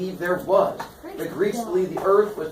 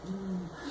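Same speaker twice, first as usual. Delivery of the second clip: creepy laugh; 3 semitones higher, 15 dB quieter than usual. Acted. Son answers with creepy laugh.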